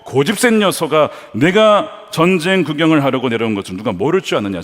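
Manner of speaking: acted big-brother rebuke, mildly heated; a touch of indignant telling-off; angry scolding. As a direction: scold a younger brother with firm force. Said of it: "화를 내며 꾸짖는 겁니다".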